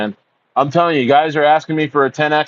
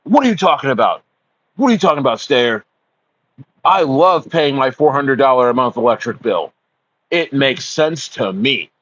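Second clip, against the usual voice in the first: mocking a clueless neighbour. Speaker mocks clueless neighbours who miss the obvious, in a mock dumb voice. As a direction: play the clueless local, lightly hammed. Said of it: "They're like".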